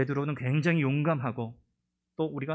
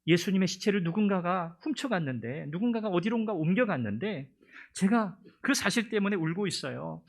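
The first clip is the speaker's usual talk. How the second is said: raised, distressed plea; pleading Mary; 4 semitones higher than usual. Acted. Mary tells the angels why she weeps, distressed. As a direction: voice her grief and frustration.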